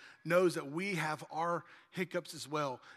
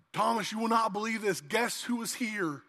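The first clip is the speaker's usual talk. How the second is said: mildly excited disciple bursting in, louder; hammed-up eager announcement; excited news; 3 semitones higher, 5 dB louder than usual. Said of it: "I can see him walking in the door".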